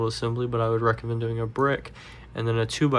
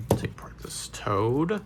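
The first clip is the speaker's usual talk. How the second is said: whispering. Real, not acted. Quiet aside while dismantling.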